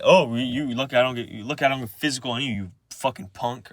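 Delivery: quick, mocking throw-back of the threat; grandpa's retort. Imitating grandpa throwing the threat back, quick retort. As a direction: fire the words back fast, as imitation. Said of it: "and he just said".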